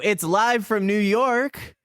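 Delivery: drawn-out, rising live-show intro; show opener announcement. Pretend. Show's announced opening line.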